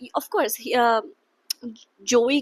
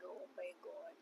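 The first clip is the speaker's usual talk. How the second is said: overwhelmed; 5 semitones lower, 26 dB quieter than usual. Real, not acted. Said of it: "I'm like".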